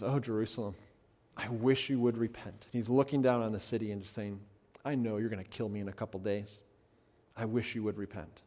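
softly voicing Jesus, a touch of longing; lightly voiced Jesus, gentle and sorrowful; tender Jesus. Preacher voicing Jesus looking down on the city, soft and tender.

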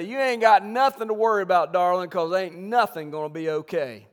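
a hint of a folksy grandfather; grandfather's saying. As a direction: lightly voice grandpa soothing grandma. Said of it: "exactly the way he says it".

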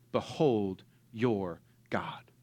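slow whispered, full of awe; hushed awe. Acted. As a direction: let the words fall in a whisper. Reading scripture, hushed climax.

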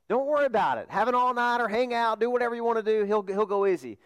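hammed-up nonchalance; mock carefree reassurance. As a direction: wave the worry away as a student would. Students presume professor will be lenient.

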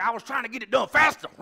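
high, loud whiny excuse; mock defensive shout. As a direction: yell the excuse back defensively. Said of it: "Donnie's like".

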